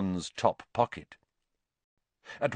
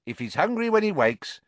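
put-on kindly old witch; 3 dB louder than usual. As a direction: reassure them kindly.

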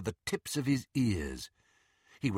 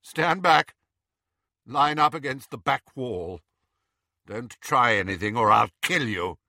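shaky Draco; 4 dB louder than usual. Acted. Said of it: "Draco's shaking voice".

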